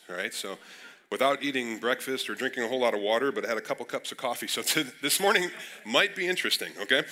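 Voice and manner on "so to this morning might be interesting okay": laughing. Real, not acted. Laughs about taking cold medicine.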